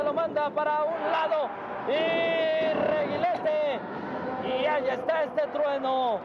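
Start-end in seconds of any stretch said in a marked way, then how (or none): 0.0-3.8 excited shout. Real, not acted. Wrestling play-by-play, big throw.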